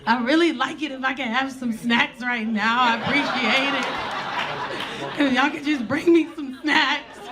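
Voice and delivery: whimpering, hammed-up tearful request; mock crying. Crying passenger asking crew for snacks, mock tearful. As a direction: beg through fake sobs. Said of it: "And I'm crying".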